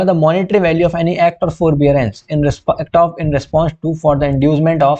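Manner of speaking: very slow, word by word, like reading a statute; slow dictation. Shown as a demonstration. Teacher dictating the legal definition, very slow. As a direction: spell it out slowly so students can note it.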